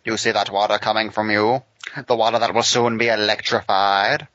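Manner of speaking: gruff Batman growl; Dark Knight Returns Batman. Pretend. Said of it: "talking like fucking Dark Knight Returns Batman".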